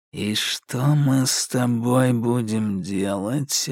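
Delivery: slow, quiet, dragging menace; slowed low voice. A narrator's reading. The psycho toys with Alka, slow and quiet. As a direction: draw it out lazily and dangerously. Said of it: "низким, будто заторможенным голосом".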